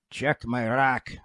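slow, mock Russian accent; imitating a player's Russian accent, slowly. Retelling a gruff Russian player's answer in Russian accent. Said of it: "he says to me in his Russian accent".

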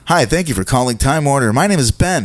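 smooth call-center voice, pitched a bit up; slick phone greeting. Retold or imitated. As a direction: sell the company name. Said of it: "like, real slick".

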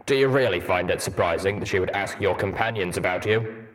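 a blunt, gruff soldier; gruff robot pony. Acted. Steelhooves voiced in story.

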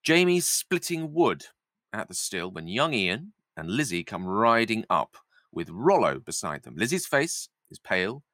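measured table-read narration with deliberate pauses; stage-direction narration. A narrator's reading. Narrator sets the scene at the still, measured reading. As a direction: read out the stage directions, savouring each phrase.

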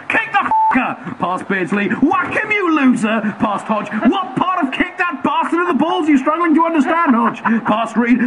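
screaming commentator. Acted. Commentator urging England to foul Maradona, in hammed-up yelling. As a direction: bellow like a fan losing his mind.

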